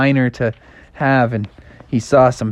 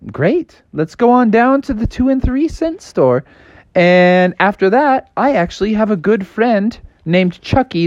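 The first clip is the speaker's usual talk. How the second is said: frog voice; 6 semitones higher than usual. Acted. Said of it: "And Froggy was like".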